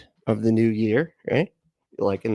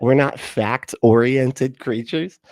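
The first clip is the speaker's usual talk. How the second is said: mocking repeat; 3 dB louder, much slower than usual. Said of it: "We're like".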